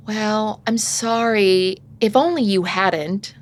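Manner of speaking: grudging apology. Shown as a demonstration. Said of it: "that's not an apology".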